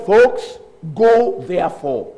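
slow, loud command; retold commission. Jesus commissioning the church, slow emphatic command. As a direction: send them out with weighty, drawn-out words.

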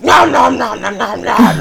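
put-on squeaky happy kid munching on chips; toddler eating noises. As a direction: play the greedy little kid diving into the dip. Toddler gobbling chips and queso.

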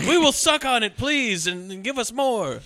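high, loud eager fan voice; mock eager fans. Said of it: "And they're like".

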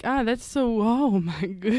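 lightly put-on classy Southern accent; genteel Southern accent. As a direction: coo like a Victorian Southern lady. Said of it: "it's not like the redneck Southern".

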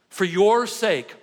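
slow and weighty, leaning hard on "your"; an earnest plea, "For your sake" drawn out and stressed on "your"; emphatic. Real, not acted. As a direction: press every word of "For your sake", stretching "your". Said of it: "I'm gonna say it extremely emphatically".

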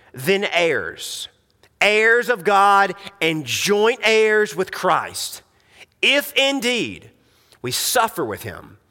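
measured, solemn reading of the verses, slowing on key words; scripture reading. Acted. Preacher reading Romans to the congregation, solemn scripture reading. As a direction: read the passage aloud like a preacher.

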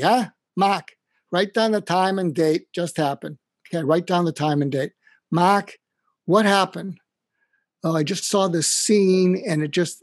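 put-on a kindly old dean calling him by name, talking him down; Boston Irish mentor. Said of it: "I'm gonna do my Mac imitation".

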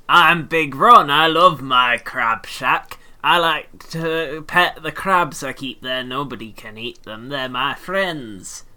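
loud, slow, dopey lumbering man; Big Ron voice. Acted. Podcaster voicing Big Ron to cohosts, slow and loud. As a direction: boom it out slow like a simple, proud crab lover. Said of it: "See, he's here in the room with me".

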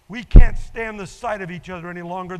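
put-on old man shouting down the phone at his son; angry outburst. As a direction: blurt it out at full volume. Old man's outburst in told story.

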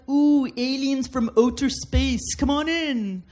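light attempt at a Canadian accent. Polite Canadians welcoming aliens from outer space, lightly faked Canadian accent. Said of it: "That's my Canadian accent".

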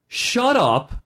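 high, snapped "shut up" from a rude orc. Acted. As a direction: bark it like an orc with no manners. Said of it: "'cause they're orcs, they're not mannered".

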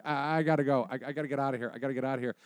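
mild acted panic, words repeating; spooked kid. Kid insisting to the detective he must leave, nervous.

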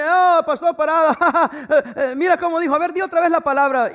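hammed-up mockery of the pastor's pronunciation; mocking. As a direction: mimic the people who tease his accent. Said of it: "se burlan porque uno no lo pronuncia".

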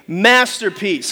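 "masterpiece" low and drawn out; slow "masterpiece" for all to join; leading a recitation. Shown as a demonstration. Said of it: "say it with me".

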